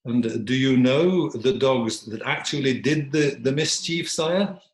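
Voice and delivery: slow, pointed question, rising at the end; lightly voiced challenge to a king; questioning dog.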